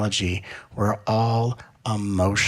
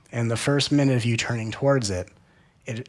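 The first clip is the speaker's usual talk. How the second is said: normal talking voice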